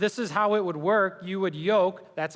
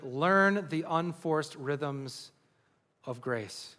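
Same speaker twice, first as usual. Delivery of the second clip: slow tender reading; 3 semitones lower, much slower than usual. Acted. Quoting scripture softly.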